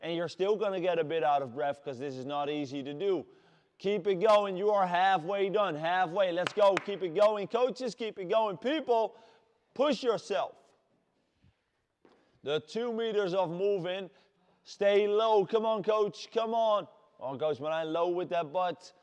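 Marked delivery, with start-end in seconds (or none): 3.8-10.5 shouting. Real, not acted. Coach urging class halfway. 14.7-16.9 shouting. Real, not acted. Coach cheering on Marijn.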